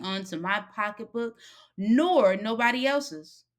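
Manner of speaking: lightly voiced woman sending the boy off with advice; stern warning. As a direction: hand down a lesson as she lets him go.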